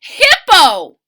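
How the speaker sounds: high stammer bursting to a loud shout; laughing stammer. Acted. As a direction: stutter then blurt it out. Rhino stammers name through laughs.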